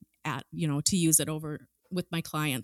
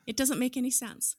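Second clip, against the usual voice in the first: whispering; 5 semitones higher, 6 dB quieter than usual. Real, not acted. Aside while partner interjects.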